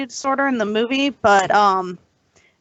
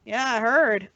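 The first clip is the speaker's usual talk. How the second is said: unexcited; slower than usual. Real, not acted. Co-host hearing of Eddie Murphy's visit, unexcited. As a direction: say it with little real enthusiasm. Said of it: "You sound so excited".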